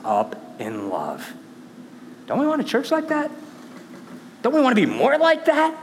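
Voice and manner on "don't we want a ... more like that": much higher, fast questions; rousing challenge. Real, not acted. Preacher urging the church to serve, rousing. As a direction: fire up the congregation. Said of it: "rousing questions".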